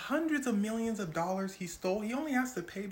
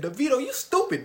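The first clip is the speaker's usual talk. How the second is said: loud, higher jab at Davido; mock insult; 8 semitones higher, 8 dB louder than usual. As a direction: yell the insult across. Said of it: "He said".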